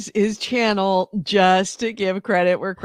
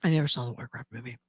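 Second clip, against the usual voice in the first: mocking repeat; 10 semitones lower, 12 dB quieter, much faster than usual. Mocking repeat of friend's line.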